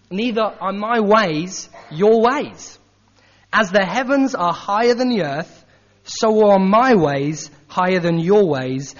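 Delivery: slow, deliberate reading; scripture reading. Acted. Preacher reading Isaiah to congregation, slow and solemn. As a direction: lay each phrase down slowly.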